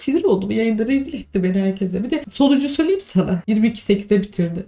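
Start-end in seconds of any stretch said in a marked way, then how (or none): 0.0-3.4 real tearful grievance; ağlamaklı. Real, not acted. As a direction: complain through held-back tears. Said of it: "Oğlum, niye ağlıyorsun?". (ağlamaklı bir sesle dert yanma)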